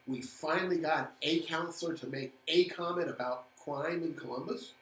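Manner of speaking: dry sarcastic question. Acted. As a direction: ask it with heavy sarcasm. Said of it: "this calls for sarcasm right now".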